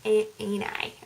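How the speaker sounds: attempted American accent. Shown as a demonstration. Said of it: "meant to be doing the American accent".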